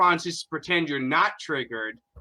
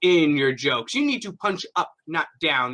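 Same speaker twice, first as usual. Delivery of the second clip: mocking tut-tut. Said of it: "This kind of tut-tutting".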